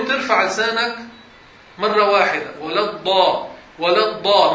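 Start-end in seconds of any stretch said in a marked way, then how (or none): 2.6-4.5 ولا الضاء with a single firm tongue lift; short clean الضاء; correct doubled dad. Shown as a demonstration. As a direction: clip the dad once, no puffing. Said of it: "ما بدها أكثر من هيك".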